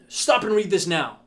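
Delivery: loud, slow attention-grabbing command; emphatic headline. Shown as a demonstration. Coach demoing an attention-grabbing hook, emphatic. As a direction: punch out the headline, word by word.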